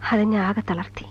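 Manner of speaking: breathy whisper, barely voiced. Woman confessing her past to an interviewer, whispering. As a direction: let the pain drop to a whisper.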